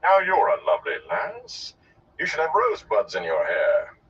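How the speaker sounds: lightly voiced courtly performer; a hint of theatrical gallantry; flattering gleeman. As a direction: charm her with showman's flattery. Gleeman flatters the young woman.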